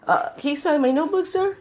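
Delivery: high, timid fanboy squeak; wimpy voice. Retold or imitated. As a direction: ask shyly, like a starstruck weak kid. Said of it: "In his wimpy voice".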